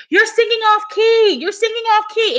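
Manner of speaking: high-pitched mock yell; retold yelling. Retelling how he scolded her singing, mock yelling. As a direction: imitate someone yelling a complaint, pitched well up. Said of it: "He was, like, yelling".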